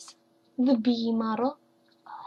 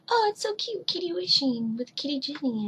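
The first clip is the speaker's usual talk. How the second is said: cooing teacher voice; 5 semitones higher than usual. Retold or imitated. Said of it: "she's like".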